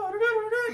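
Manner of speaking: high vocal trumpet flourish; mock fanfare. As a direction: toot out a quick mock fanfare. Fanfare noise between story parts.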